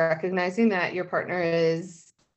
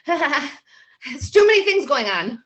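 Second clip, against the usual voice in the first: slow, higher mock-overwhelmed whine; 7 semitones higher, 4 dB louder, much slower than usual. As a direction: act swamped by too much at once. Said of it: "I'm like".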